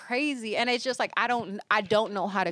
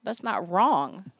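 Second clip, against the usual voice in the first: slow mock hurt; 2 semitones lower, slower than usual. Dramatic wounded complaint.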